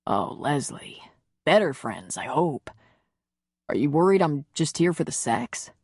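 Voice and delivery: lightly voiced tender man. Man reassuring Leslie about his feelings, lightly voiced tenderness.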